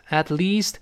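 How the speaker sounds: At least with a long ee in least. Shown as a demonstration. Teacher modelling the long vowel in least. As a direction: stretch the ee in least. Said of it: "注意发长音一".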